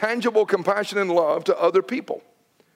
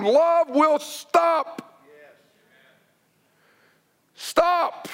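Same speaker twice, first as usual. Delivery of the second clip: slow deliberate emphasis; 5 semitones higher, much slower than usual. Shown as a demonstration. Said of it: "But that's what we have to do".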